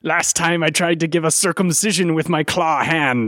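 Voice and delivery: mock pirate recounting a mishap; lightly voiced pirate, wobbly accent. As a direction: play the hapless pirate. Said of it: "I can't even fucking speak in this accent".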